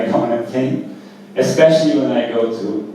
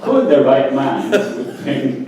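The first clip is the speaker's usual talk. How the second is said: laughing; 2 semitones higher than usual. Real, not acted. Laughing through the punchline.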